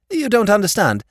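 earnest silly-ass objection, cut short; protesting lordship. A narrator's reading. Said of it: "protested his lordship".

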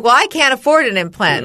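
mildly indignant, forceful retort; retold annoyance. Patient mad at the dentist over implant cost, mildly angry retort. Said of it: "Now I'm mad at her".

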